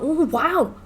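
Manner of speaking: mock being impressed; sarcastic wow. Gamer mocking a tiny game reward with sarcasm. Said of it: "I'm like".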